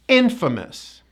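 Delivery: "Infamous" as IN-fuh-mus; no A vowel. Shown as a demonstration. Teacher closes the example, "Infamous" with reduced A. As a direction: stress IN, weaken the middle of "Infamous". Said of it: "We do not pronounce that A vowel".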